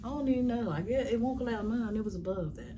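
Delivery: bubbling over with happiness; excited. Real, not acted. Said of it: "I'm excited".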